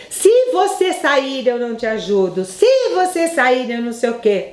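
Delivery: high, pleading mock-threat to a child; lightly voiced threatening parent; mock parental threat. Mother warning child not to leave, mock threat.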